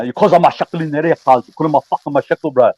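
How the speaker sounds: light Arabic accent on the quote; a hint of an Arabic accent. Shown as a demonstration. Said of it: "I can do an Arabic accent".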